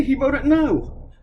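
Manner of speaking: "He voted no." dragged out very slowly; drawn-out, pointed "He voted no."; slow emphasis. Real, not acted. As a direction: spell out "He voted no." word by word, slowly. Ranting stress on the vote.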